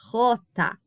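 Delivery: J said with a rasping sound from the throat; throaty Spanish jota. Shown as a demonstration. Teacher showing her class the Spanish J, rasped from the throat. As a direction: push J out from the back of the throat. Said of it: "o som vem lá da garganta".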